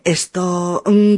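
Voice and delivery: ordinary talk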